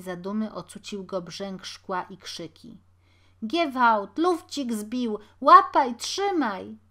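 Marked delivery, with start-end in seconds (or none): 3.5-6.8 loud alarmed yelling, pitch jumping up; shouting after thief. Acted. Street crowd yelling after the window-breaker, loud. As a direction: raise the alarm, yell to catch him.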